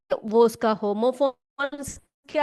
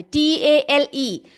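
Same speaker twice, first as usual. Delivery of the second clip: slow spelling; slower than usual. Shown as a demonstration. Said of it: "इस टेल का अर्थ क्या होता है?".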